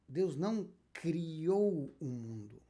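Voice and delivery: slow, weighty stress on criou; deliberate correction, leaning on criou. Shown as a demonstration. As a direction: stretch out criou, the past tense being denied. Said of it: "Deus cria o mundo a cada instante".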